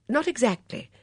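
put-on high, fluttery, worried old lady; a fussy old companion fretting; anxious old Dora. Dora frets to Miss Blacklock about the notice, high and anxious.

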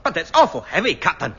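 put-on Scottish accent. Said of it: "he was Scottish".

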